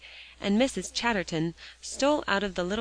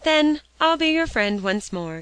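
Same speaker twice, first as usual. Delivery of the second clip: consenting; 8 semitones higher, 7 dB louder than usual. A narrator's reading. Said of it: "consented Polly".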